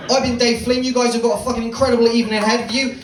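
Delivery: high, loud, upbeat goodbye; energetic sign-off. Real, not acted. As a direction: wrap up the set with a big send-off. Signing off to the crowd.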